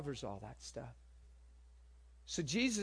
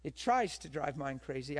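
ordinary talk, nothing marked

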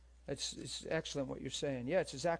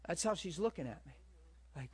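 normal talking voice

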